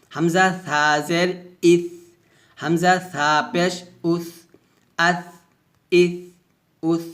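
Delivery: soft th ending in আস, ইস, উস; tongue at upper teeth, gentle air; lisped th closing each of আস, ইস, উস; soft hams drill. Shown as a demonstration. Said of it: "এভাবে".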